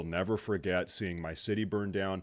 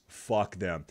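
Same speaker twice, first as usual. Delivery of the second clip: ordinary delivery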